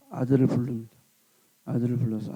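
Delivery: ordinary delivery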